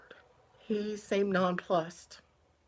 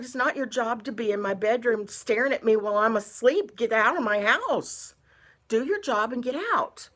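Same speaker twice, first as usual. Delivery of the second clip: raised, angry voice telling him off; retold yelling; 3 semitones higher, 6 dB louder than usual. Woman yelling at the exterminator in her bedroom, angry. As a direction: yell at the intruder to leave. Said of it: "I kinda yelled at him".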